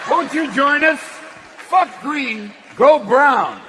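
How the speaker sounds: drawn-out, breathy, eerie coaxing; creepy cult invitation. Acted. Inviting the crowd to go brown, eerie. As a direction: lure them in like a cult leader. Opening bit luring audience, creepy.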